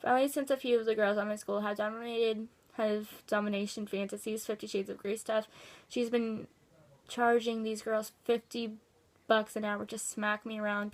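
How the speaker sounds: even, matter-of-fact read-aloud; reading a letter aloud. Acted. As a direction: read out someone's written account, plainly. Reads out a submitted letter.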